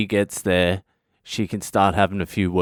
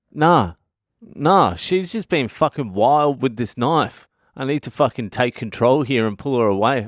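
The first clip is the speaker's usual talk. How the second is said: alarmed inner voice; 5 semitones higher than usual. Retold or imitated. Panicking about nana's knife.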